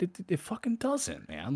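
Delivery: squeaky high exasperated protest; high incredulous whine; mock exasperation. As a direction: pitch way up in disbelief. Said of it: "I'm like".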